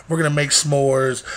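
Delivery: usual speaking voice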